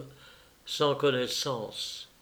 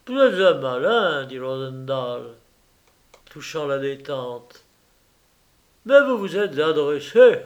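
loud, sneering gloat; mocking millionaire; 3 semitones higher, 6 dB louder than usual. Rosendahl mocks the thief he caught, loud and sneering. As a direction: rub the capture in.

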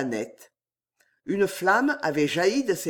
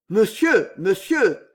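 pleading gasps, higher and louder; panting; 4 semitones higher, 6 dB louder, slower than usual. Acted. Damiens pants a plea to his master. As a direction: gasp out the words in dread. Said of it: "haleta Damiens".

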